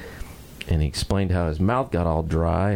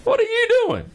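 lizard calling up. Acted. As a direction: shout up at the monkey in a high voice. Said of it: "says to the monkey".

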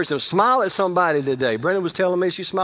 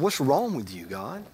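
anguished plea to God; 7 dB quieter than usual. Retold or imitated. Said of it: "I said".

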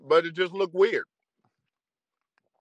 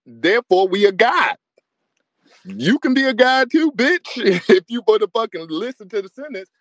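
raised voice, hammering the point home; loud worked-up sermon; loud preaching rant; 3 semitones higher, 6 dB louder than usual. Real, not acted. Ranting on stream at women.

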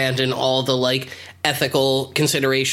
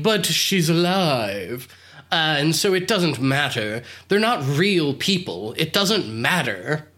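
put-on slow, drawn-out rich-boy excuse; lightly acted, stretched-out brush-off; mock dismissive; slower than usual. Rich boy excusing himself to Mitch, lightly mocking dismissiveness.

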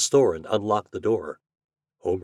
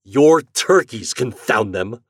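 slow, loud, raised exasperation; angry snarl; 3 semitones higher, 8 dB louder, slower than usual. A narrator's reading. Storekeeper cursing the boy's birds, snarling. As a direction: snarl it with weight on each word. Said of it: "snarled Mister Richards".

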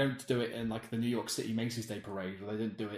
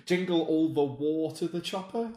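higher, put-on catchphrase voice; hammed-up action hero; 5 semitones higher, 4 dB louder than usual. Pitching the pun sequel title, hammed-up action-hero voice. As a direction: parody a film catchphrase in a put-on voice. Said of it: "No, that's too much".

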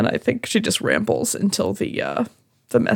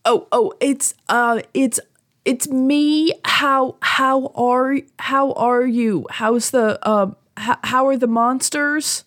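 higher, halting attempt to be heard on the phone; speaking up; 4 semitones higher than usual. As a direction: speak up to someone who can't hear you. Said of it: "Can, can you speak up?".

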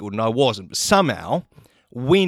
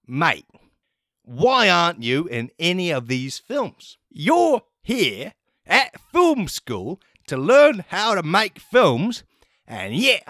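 high, slow scolding principal voice; stern principal; 5 semitones higher, slower than usual. Retold or imitated. Principal scolding Waffles in his office, high and slow. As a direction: lecture the student, drawing it out. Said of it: "and he's like".

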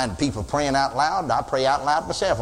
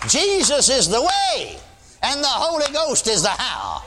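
preaching shout; 7 semitones higher, slower than usual. Acted. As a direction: shout the truth out slowly.

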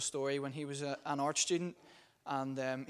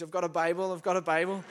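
high, loud gleeful cry; mock triumphant shout of having a Bible; excited shout; 4 semitones higher, 8 dB louder than usual. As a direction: call it out like a triumphant boast. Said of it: "and James goes".

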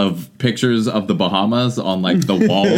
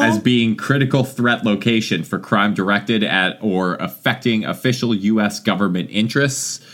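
reading advisory. Acted. Reads State Department advisory.

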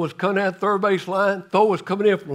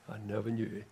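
solemn echo; 9 semitones lower, 15 dB quieter, faster than usual. Real, not acted. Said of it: "the saddest words in the Bible".

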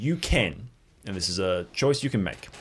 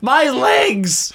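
high-pitched yelp; high loud cry; 9 dB louder than usual. Acted. Character cries out.

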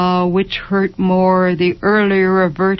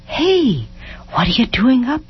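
higher, tender questioning; gentle; 5 semitones higher than usual. A narrator's reading. Husband coming up to his sick wife, gently concerned. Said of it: "he asked gently".

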